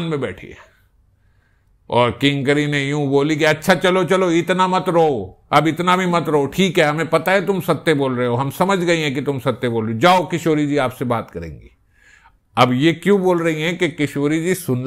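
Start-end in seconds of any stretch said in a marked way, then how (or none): 3.4-11.7 lightly voiced sakhi soothing Krishna; consoling sakhi. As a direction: hush a crying child, fondly. Sakhi hushes weeping Krishna.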